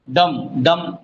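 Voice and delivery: डम said twice with a falling tune; voice going down. Shown as a demonstration. Teacher showing an unstressed syllable, डम sinking each time. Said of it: "नीचे जा रही है आवाज".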